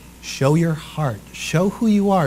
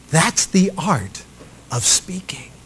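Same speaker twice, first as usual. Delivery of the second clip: hushed finish; 3 semitones higher, slower than usual. Shown as a demonstration. Dramatic pause, whispered ending.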